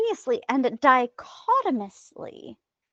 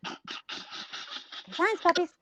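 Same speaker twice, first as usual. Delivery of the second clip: dreamy whisper; 5 semitones higher, 9 dB quieter, much slower than usual. Pretend. Dreamy echo of the phrase.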